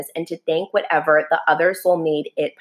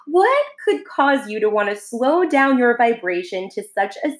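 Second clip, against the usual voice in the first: put-on lightly raised, wondering child-like soul; little soul's voice; 5 semitones higher than usual. Little soul asks friend, lightly voiced and wondering.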